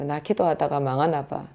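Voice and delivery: quiet, downcast murmur to oneself; softly retold sigh of defeat; despondent lament. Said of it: "탄식으로 제가 말했어요".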